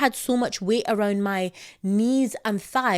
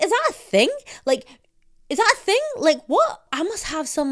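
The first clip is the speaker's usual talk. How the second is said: high, loud panicky questions; higher, louder worried rant; mock panic; 4 semitones higher, 4 dB louder than usual. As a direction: act out her own alarmed confusion. Retelling panicked thoughts.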